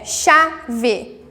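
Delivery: "chave" split as cha-ve; two separate beats on "chave"; syllable by syllable. Shown as a demonstration. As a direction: pause between cha and ve in "chave". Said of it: "Chave também é uma palavra com duas sílabas".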